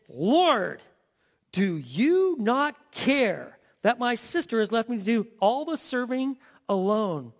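reproachful plea to Jesus; a hint of an aggrieved sister; complaining Martha. Martha complaining to Jesus about her sister, reproachful. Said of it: "she came up to him and said".

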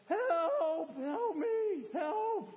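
high, strained pleading cry; strained cry for help. Retold or imitated. Preacher acting a lifter crushed by the weight, crying for help. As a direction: call out like you're pinned under the bar.

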